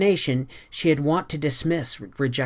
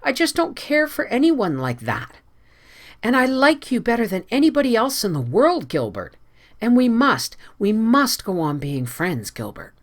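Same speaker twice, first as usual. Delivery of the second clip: much higher, eager plea; eager, higher and insistent; 8 semitones higher, 3 dB louder than usual. A narrator's reading. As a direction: urge him to stay friends. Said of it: "said Anne eagerly".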